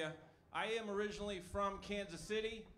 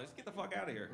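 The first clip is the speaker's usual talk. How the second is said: shark impression; faster than usual. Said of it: "My shark impression".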